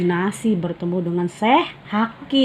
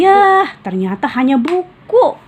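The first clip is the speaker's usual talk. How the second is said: high, slow, louder letdown; disappointed moan; 9 semitones higher, 6 dB louder than usual. Acted. Raihan sees it's only a book, disappointed. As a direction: sigh out the letdown. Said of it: "keluh Raihan".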